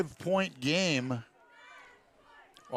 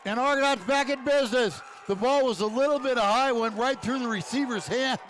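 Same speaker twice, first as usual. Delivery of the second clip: excited play-by-play; 5 semitones higher than usual. Real, not acted. Excited call after interception.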